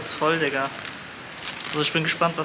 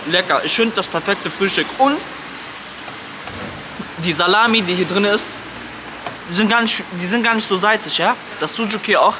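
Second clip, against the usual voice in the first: chewing while talking; talking around a bite of food; mouth full; 2 semitones higher than usual. Real, not acted. Seen 1: bites at -4; cheek bulges and chews while talking through 3.3.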